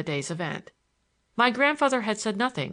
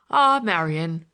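crying out; 6 dB louder, slower than usual. A narrator's reading. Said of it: "cried my grandfather".

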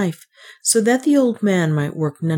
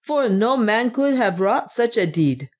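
higher-pitched exclamation at normal volume; awed cry; 6 semitones higher than usual. A narrator's reading. Captain marvelling at the dwarf's deed, mildly awed cry. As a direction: cry it higher, with a touch of wonder. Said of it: "cried one of the captains".

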